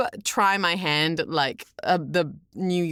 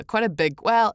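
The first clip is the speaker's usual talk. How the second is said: usual speaking voice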